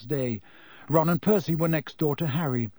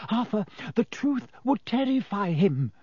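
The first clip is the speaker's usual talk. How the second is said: high, shrill pleading; shrill frightened mother; 7 semitones higher than usual. A narrator's reading. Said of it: "said Missus Weasley shrilly".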